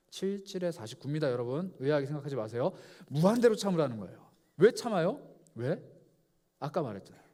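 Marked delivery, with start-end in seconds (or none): 3.1-5.2 louder, insistent preaching; emphatic preaching. Real, not acted. Preacher pressing the point on the congregation, loud and insistent.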